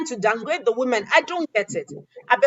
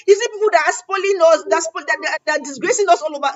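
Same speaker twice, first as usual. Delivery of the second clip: furious retort; 5 semitones higher, 3 dB louder than usual. Retold or imitated. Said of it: "the lady beside me was so furious".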